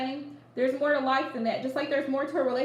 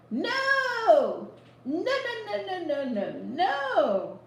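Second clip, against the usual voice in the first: emphatic no; 5 semitones higher, much slower than usual. Acted. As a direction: refuse it outright, no after no. Emphatic refusal, laughing about it.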